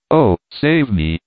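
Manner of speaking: a lightly acted damsel's cry of save me; cried out. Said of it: "she cried".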